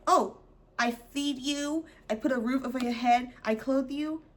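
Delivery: lightly voiced smug parent, slow; a hint of a self-righteous parent; mock smug parent. Mocking parents who brag about providing, lightly smug. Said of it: "that whole argument of".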